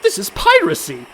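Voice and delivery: loud, indignant protest; outraged exclamation at being robbed; indignant outburst. Acted. To the pirates demanding his pockets, loud indignant protest.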